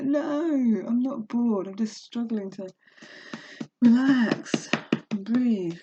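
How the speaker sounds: high, tearful voice close to crying; near tears. Real, not acted. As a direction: voice welling up. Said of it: "Oh, I wanna cry".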